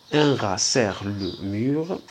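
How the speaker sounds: each word slow and clear for the class; slow dictation. Shown as a demonstration. Teacher reading slowly to pupils, slow and clear. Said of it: "slow dictation line".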